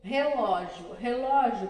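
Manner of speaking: Relógio with a strong throaty initial R; teacher modelling Relógio clearly; model word. Shown as a demonstration. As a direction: open Relógio with the rough R. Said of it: "basta pronunciar a palavra".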